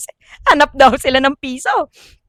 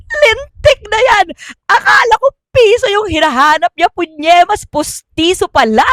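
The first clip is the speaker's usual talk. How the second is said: high, loud comic outburst; louder, higher laughing exasperation; exasperated exclaim; 6 semitones higher, 4 dB louder than usual. Real, not acted. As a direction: blurt out at the punchline. Host exclaims at punchline.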